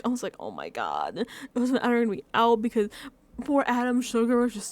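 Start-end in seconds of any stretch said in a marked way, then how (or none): 0.4-1.2 tag. Retold or imitated. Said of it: "I was, like, so sick".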